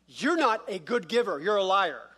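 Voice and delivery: mildly heated, firm accusation; angry accusation. Acted. Vineyard workers accusing the owner, angry. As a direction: accuse him to his face. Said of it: "then it's an accusation".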